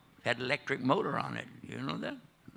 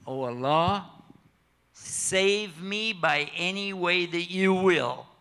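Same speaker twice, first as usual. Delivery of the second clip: earnest prayer; slower than usual. Acted. Boy prays on the mountain.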